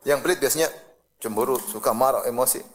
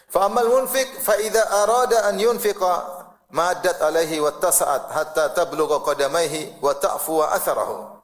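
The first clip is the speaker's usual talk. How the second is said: raised, measured recitation of scripture; chanted Arabic hadith reading; 2 semitones higher than usual. Acted. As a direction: recite the hadith slowly and solemnly.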